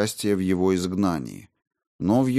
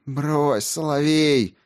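raised, scornful dismissal; contemptuous; 8 semitones higher, much slower than usual. A narrator's reading. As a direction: brush him off with contempt. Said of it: "презрительно улыбнулась".

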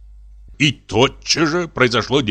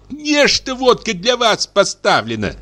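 stern spinster; 13 semitones higher than usual. A narrator's reading. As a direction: demand it sternly. Dashenka scolds.

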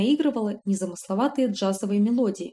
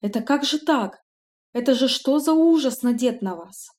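appalled; 4 semitones higher, 3 dB louder than usual. Acted. Maid appalled by trouser suit.

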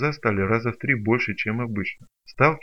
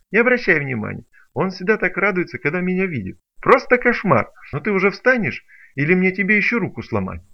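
higher, louder teasing banter; mocking threat; 5 semitones higher, 5 dB louder than usual. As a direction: joke to the girl, threaten him. (насмешливо, с угрозой)

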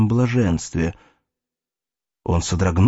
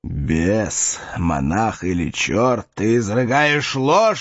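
angry exclaim; slower than usual. Acted. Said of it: "воскликнул".

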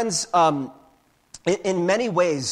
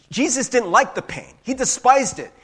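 mock anguish; 6 semitones higher, 6 dB louder than usual. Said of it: "You could be like".

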